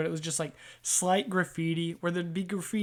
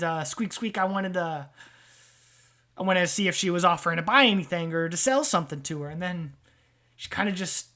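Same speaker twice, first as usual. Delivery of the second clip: rat-man voice; 4 dB louder than usual. Acted. Rat-man tells his story.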